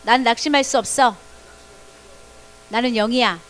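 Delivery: loud, firm declaration. Shown as a demonstration. Pastor leads the children against anxiety, loud declaration. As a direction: proclaim it boldly and loudly. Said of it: "시작".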